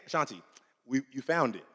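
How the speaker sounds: hushed tender heart voice; soft inner voice. Pretend. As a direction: tell her gently she found it. Heart speaking softly.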